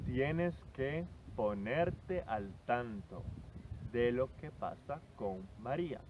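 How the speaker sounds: slow, careful teacher read of the example; slow model sentence. Shown as a demonstration. Teacher reading the example to her student, slowly and clearly. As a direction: spell it out slowly so the student catches every word. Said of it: "teacher models example sentence".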